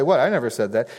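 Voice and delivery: mock denial of a sly speaker; slyly protesting innocence; feigned innocence. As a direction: play innocent, I never said that. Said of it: "You want to leave yourself room to say".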